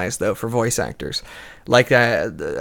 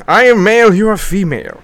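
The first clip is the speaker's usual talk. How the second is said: higher, louder seductive voice; femme fatale; 8 semitones higher, 12 dB louder than usual. Acted. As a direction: lay on the seduction loudly. Repeating the seductive line.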